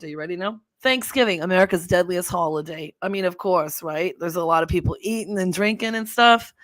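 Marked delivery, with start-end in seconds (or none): 0.8-2.9 put-on East Coast accent; Jersey accent. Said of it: "okay, I'm gonna do my accent". 3.0-6.5 put-on East Coast accent; Jersey accent. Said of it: "okay, I'm gonna do my accent".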